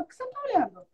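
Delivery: re-enacted indignant questioning; retold indignation. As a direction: confront a starer, half in earnest. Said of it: "eu ficava tão indignada".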